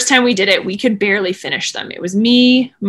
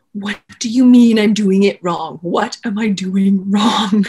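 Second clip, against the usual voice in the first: crying. Retold or imitated. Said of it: "I'm just crying and being like".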